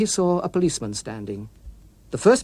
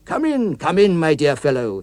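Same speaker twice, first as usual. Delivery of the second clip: relieved exclaim; 2 semitones higher, 4 dB louder than usual. Acted. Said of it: "he exclaimed".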